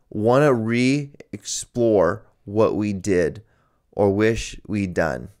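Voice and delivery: slow, deliberate read-out of a personal ad; reading an ad aloud. Acted. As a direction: read it out slowly, phrase by phrase. Reads out a personal ad.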